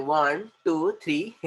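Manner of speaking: lightly put-on effeminate count; mock effeminate counting. Teacher mimicking how some people count, lightly effeminate. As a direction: draw the numbers out in light mockery. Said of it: "गे के ऐसे start करते हैं".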